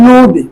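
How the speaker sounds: নদী said "no-di"; correct pronunciation. Shown as a demonstration. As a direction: round the first vowel of নদী to o. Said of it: "নদী উচ্চারণ হবে". (নদীকে "নোদি" উচ্চারণ)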